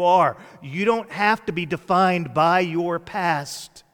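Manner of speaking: steady, driving sermon delivery; impassioned preaching. Real, not acted. Preacher assuring the hurting that God can use them, impassioned. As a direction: build the encouragement with firm emphasis.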